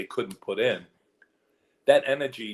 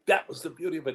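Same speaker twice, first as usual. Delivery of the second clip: high-pitched re-enacted retort; emphatic retort; 8 semitones higher, faster than usual. Actor repeating his point to the director, emphatic. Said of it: "I said it just like that".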